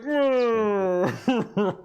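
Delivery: drawn-out creature moan; long wordless moan of protest; Mickey's creature noise. Acted. Mickey answers the mocking redcaps, drawn-out creature moan. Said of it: "Mickey's like".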